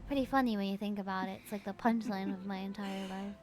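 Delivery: low, soft, quick in-character read; hushed story-game reading; reading game dialogue. Acted. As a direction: read the lines quietly, like a reflective monologue. Reads game dialogue aloud.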